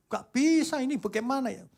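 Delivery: high, upset protest; mock girl's voice, high-pitched; protesting young woman. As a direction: object in a high complaining voice. Second woman driver protests.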